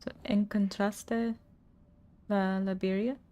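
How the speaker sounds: slow, careful Spanish with an English accent; reading the Spanish slowly, with untrilled R's; Spanish attempt. Shown as a demonstration. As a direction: try the Spanish line slowly, unsure of the R's. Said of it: "I can't roll my R's very well".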